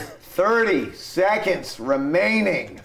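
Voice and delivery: stretched-out announcer delivery; countdown announcer. Pretend. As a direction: announce it like a contest host. Contest host calls out time.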